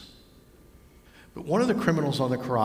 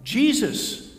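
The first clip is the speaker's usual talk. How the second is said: amazed disciples; 3 semitones higher than usual. Acted. Disciples astonished at the stranger.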